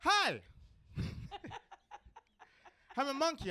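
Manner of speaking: high, loud cartoon monkey greeting; talking monkey. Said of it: "just pretend this monkey tongue".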